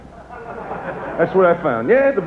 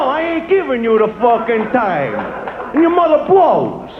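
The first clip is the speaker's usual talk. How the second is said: mock-furious, rising higher and higher; hostile rant; 5 semitones higher than usual. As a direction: snap back at a stranger asking the time. Rude New Yorker refusing the time.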